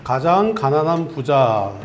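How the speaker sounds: slow, clearly paced call for the congregation to echo; slow recitation to repeat. Shown as a demonstration. Pastor leads the congregation in a repeated phrase, slow recitation. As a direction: lay out each word slowly so others can repeat it. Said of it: "한번 따라하겠습니다".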